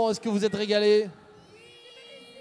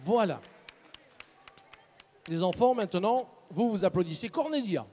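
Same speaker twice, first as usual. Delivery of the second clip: speaking with caramel stuck to teeth; chewing sticky toffee. Real, not acted. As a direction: mouth full of sticky candy. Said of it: "Ça colle aux dents".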